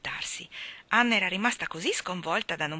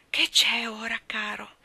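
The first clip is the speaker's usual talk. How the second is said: higher question, softening at the end; suppressed impatience; 4 semitones higher than usual. A narrator's reading. Anna sleepily answering Davy, suppressed impatience. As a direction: keep any impatience out of the question. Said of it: "escludere dalla propria voce ogni nota di impazienza".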